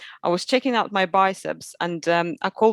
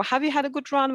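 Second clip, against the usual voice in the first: put-on child voice; 7 semitones higher than usual. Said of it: "they was like".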